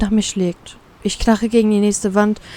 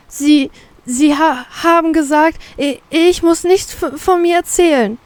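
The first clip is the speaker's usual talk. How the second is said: high-pitched, stammering indignation; peeved; 7 semitones higher than usual. A narrator's reading. Reminding the captain of their promise, peeved. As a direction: remind them sourly, stumbling over words. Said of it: "erinnere ich ihn angesäuert".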